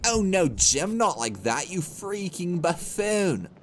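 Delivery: hammed-up bad British commentary; very bad British accent. Mocking own game death, very bad British accent. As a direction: scold yourself in a poor British accent. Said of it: "in a very bad British accent".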